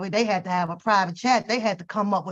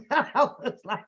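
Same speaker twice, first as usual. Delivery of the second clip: ordinary delivery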